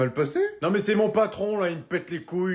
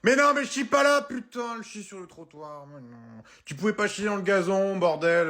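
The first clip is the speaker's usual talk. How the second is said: exasperated yelling; 5 semitones higher than usual. Acted. Dog walker yelling at a dog pooping on the pavement, exasperated. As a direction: snap at the dog mid-business.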